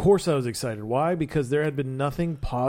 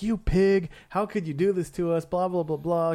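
higher-pitched scolding, lightly acted; mock indignation; 5 semitones higher than usual. Two women confronting their cheating date, mock indignant. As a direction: imitate outraged dates, mildly.

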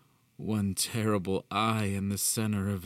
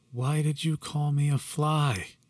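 higher, louder startled question; sudden shocked ask; 8 semitones higher, 4 dB louder than usual. A narrator's reading. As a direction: blurt it out in shock. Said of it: "shocked at his sudden change in tone".

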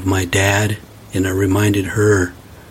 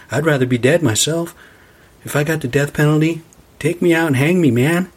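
worked up; 5 semitones higher than usual. Real, not acted. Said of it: "I went on a rampage there".

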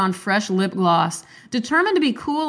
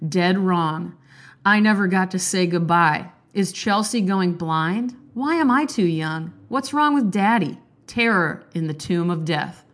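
recited like a poem. Shown as a demonstration. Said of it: "let me list these books 'cause it sounds like a poem".

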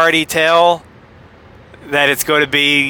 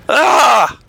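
startled yelp; 7 semitones higher, 4 dB louder than usual. Shown as a demonstration. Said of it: "I'm gonna do that again".

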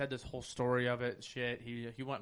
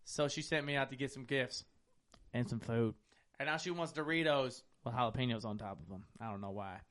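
monotone voice; 3 dB quieter than usual. Retold or imitated. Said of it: "it was just one tone the whole time".

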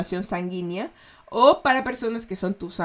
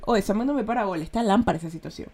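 frase soltada rápida y corrida, como la habla un ecuatoriano; rápido, a lo ecuatoriano; faster than usual. Shown as a demonstration. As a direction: dilo de corrido, sin pausas, rápido. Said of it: "El ecuatoriano habla rápido". (ritmo ecuatoriano rápido y casual)

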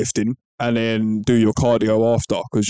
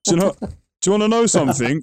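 excited; 8 semitones higher than usual. Real, not acted. Teasing reveal of secret.

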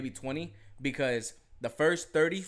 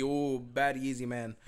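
put-on Jamaican accent; slower than usual. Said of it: "gotta be in a Jamaican accent".

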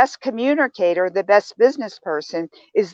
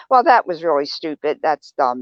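a mildly lower, dismissive put-down; shaming put-down; 5 semitones lower than usual. Retold or imitated. Coach imitating a shaming coworker, mildly dismissive. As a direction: sound lightly scornful of a colleague's idea. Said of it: "instead of saying".

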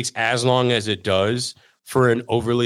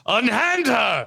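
slow, high theatrical knight; hammy stage actor; 11 semitones higher, slower than usual. Pretend. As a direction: declaim like a stage hero. Mock knight stage line.

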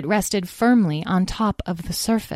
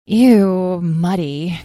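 disgusted, whiny complaint; wrinkle-nosed grumble of disgust; complaining; 4 dB louder, much slower than usual. Acted. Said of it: "complained Amethyst".

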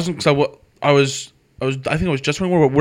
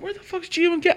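retold confused yell; 5 dB quieter than usual. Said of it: "and I'm like".

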